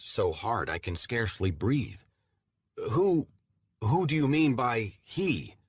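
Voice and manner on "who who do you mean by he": frightened. Acted. Frightened narrator questions the voice.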